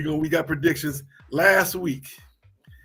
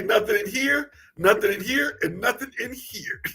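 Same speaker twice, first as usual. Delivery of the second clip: a lightly voiced cartoon duck, a bit higher; a hint of Daffy Duck, raised and playful, ending in a laugh; 5 semitones higher than usual. Co-host doing Daffy Duck to tease his partner, lightly voiced. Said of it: "What Daffy Duck say?".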